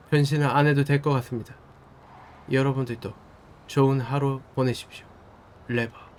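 formal broadcast-style address; news anchor voice. Acted. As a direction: announce it like a TV newscaster.

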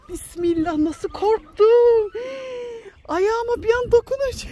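slow, crying voice after a scare; tearful real fright; shaken. Real, not acted. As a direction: still shaking, breathe out the fright slowly. Recovering from a fright.

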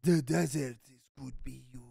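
put-on movie Arab accent. Friend continues the desert movie parody, mock Arab accent. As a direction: keep up a film-caricature Arab accent. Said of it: "fucking movies with the Arabs".

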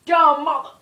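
loud, high burst of swearing; explode, then cut yourself off; real exasperated shout; angry outburst. Real, not acted. Real argument over the phone.

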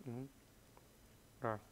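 usual speaking voice

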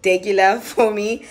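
breathless, short of air; talking while out of breath; running out of air. Real, not acted. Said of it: "I don't know why I'm running out of breath".

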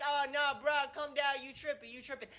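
put-on casual teen coworker. Coworker voiced in the story.

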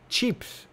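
"Chips" breathed out with a tch start; a near-whispered tch-ips "Chips"; hushed tch chips. Shown as a demonstration. Puzzling over the T, "Chips" hushed with tch. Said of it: "There is no T in chips".

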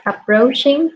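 "approaching" said slowly, stretched; slow model word. Shown as a demonstration. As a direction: draw out "approaching" for the student. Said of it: "teacher models words".

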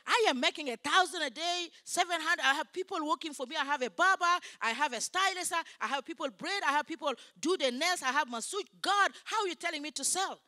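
high, insistent retold argument with God; re-enacted protest from the pulpit; indignant protest. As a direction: list it off insistently, pleading your case. Retells her protest to God.

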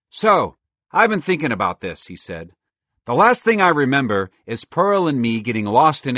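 loud, high cheerful squirrel; a bold, chatty talking squirrel. Acted. Merle speaks.

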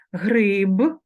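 Гриб with a clearly voiced final б, said loud; voiced final consonant. Shown as a demonstration. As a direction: say Гриб ending on a buzzing б, not п. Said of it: "вимовляються дзвінко".

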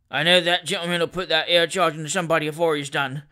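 lightly voiced grumbling gamekeeper; growling. Gamekeeper complaining about a careless shooter, growling. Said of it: "growled the long man".

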